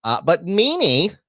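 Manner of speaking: loud drawn-out call. Real, not acted. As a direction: call his name across the room. Calling out to co-host.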